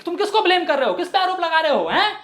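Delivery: high, accusing vendor's yell; mildly hammed-up indignant shout; mock shouting. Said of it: "तो वो भी बड़े चिल्ला के बोल रही थी".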